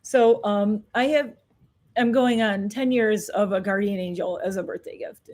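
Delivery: real, fighting not to cry; holding back tears. Real, not acted. Telling of her late brother, trying not to cry. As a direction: voice cracking, close to tears. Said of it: "I'm crying on camera".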